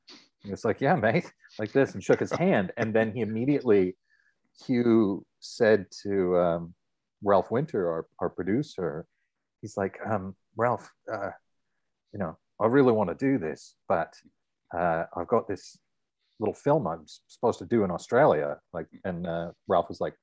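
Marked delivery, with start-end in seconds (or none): 0.8-1.3 put-on raised, matey Australian accent; quick Australian impression; Hugh Jackman's Australian accent. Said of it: "That's a great Australian accent there". 10.5-18.6 light Australian impression, hesitant; lightly put-on Australian accent; Hugh Jackman's Australian accent. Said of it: "That's a great Australian accent there".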